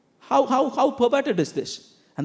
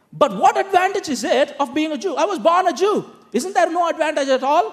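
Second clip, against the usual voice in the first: acted challenge; 5 semitones higher than usual. Preacher voices challenge from Paul's Jewish questioners.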